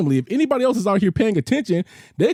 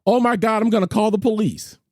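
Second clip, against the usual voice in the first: imitated Karen; 4 semitones higher than usual. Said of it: "Here's the Karen move".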